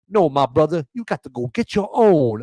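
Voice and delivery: lightly hammed-up old commercial reply; a touch of mock pandering in the answer; Kamala pandering impression. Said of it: "my pandering impression".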